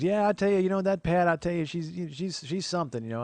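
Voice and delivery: high, chatty neighbor lady; Dottie. Retold or imitated. Neighbor talking about his mom, high character voice. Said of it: "she goes".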